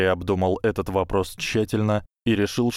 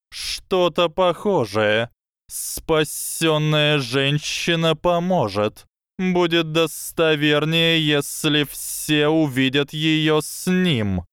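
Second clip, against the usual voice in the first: high, slow lecturing snake voice; slow hypnotic serpent hiss; 8 semitones higher, slower than usual. Acted. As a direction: coil the words around him slowly. Snake answers.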